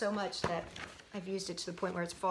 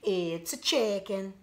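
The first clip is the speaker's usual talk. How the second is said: triumphant; 4 dB louder, slower than usual. Acted. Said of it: "exclaimed Marilyn".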